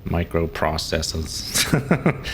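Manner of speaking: slow drawn out microprocesses, Boston accent. Shown as a demonstration. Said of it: "It's hard".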